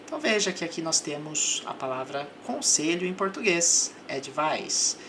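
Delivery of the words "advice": advice with the stress on vice; teacher showing where advice is stressed, stress on vice; stress on the middle syllable. Shown as a demonstration. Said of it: "com a sílaba tônica aqui no meio".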